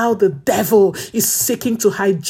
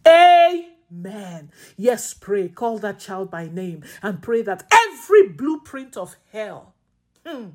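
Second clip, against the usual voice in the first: impassioned intercessory praying; fervent prayer. Acted. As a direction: pray it with fire and urgency.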